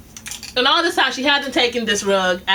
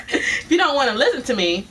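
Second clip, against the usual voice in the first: laughing through the words. Retold or imitated. Relaying the boss's message.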